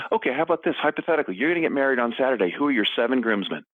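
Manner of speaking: mock game show host question; playful quiz. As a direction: tease the kids with the question. Dad quizzing kids at dinner.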